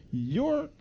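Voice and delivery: slow, drawn-out pointed delivery; incredulous emphasis. Retold or imitated. Viewer addressing an actor looking at the sky, slow and pointed. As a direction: stretch the words out to make the point.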